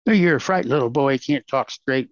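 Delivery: a hint of a schoolyard bully sneering; lightly voiced taunting boss; half-hearted sneer at the Texas accent; mock bully taunt. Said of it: "street yard bully".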